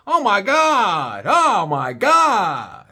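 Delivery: slow, drawn-out disgusted oh my God; disgusted groan. Retold or imitated. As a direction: wave away the stink, appalled. Golfer waving towel, disgusted.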